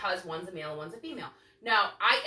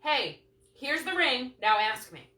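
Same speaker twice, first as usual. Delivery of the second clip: mock demanding girlfriend; 3 semitones higher, slower than usual. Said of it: "and saying".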